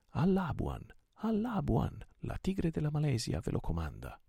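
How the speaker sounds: high, rousing rallying cry; rally the crew, voice flung up high; thundering command. A narrator's reading. Captain orders his men to the island, high commanding cry. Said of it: "tuonò egli".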